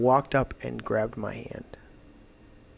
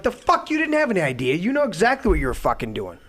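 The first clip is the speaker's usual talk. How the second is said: fast, higher and louder tirade; retold yelling; 5 semitones higher, 4 dB louder than usual. Scolding the girl who trashed his place, furious yelling. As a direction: tear into her, word after word. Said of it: "and I lit into her".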